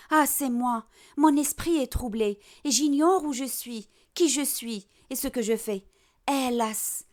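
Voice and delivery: lightly acted lament of a bewildered miser; Harpagon, distraught. Miser speaking to his stolen money, mildly distraught lament. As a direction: mourn the lost money like a dear friend. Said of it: "Tellement qu'il a perdu la raison".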